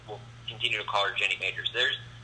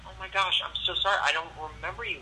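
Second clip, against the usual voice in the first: higher-pitched imitation of a sorry girl; apologetic girl; 7 semitones higher, faster than usual.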